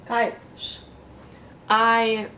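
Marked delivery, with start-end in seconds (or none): 0.1-0.8 whispered shush. Real, not acted. Hushing the audience.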